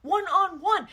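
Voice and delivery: loud, high, drawn-out accusation; mock indignant outburst; accusing. Acted quarrel, man accuses partner.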